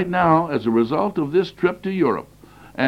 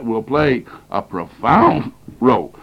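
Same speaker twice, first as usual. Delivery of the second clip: coughing; 2 semitones lower than usual. Real, not acted. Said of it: "Excuse me for coughing here".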